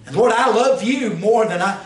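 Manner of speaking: fervent prayer. Pretend. Modeled prayer rises in fervor.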